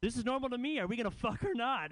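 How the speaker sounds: a hint of a nonchalant hookup; casual victim. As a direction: shrug it off like nothing's odd. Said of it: "the guy's like".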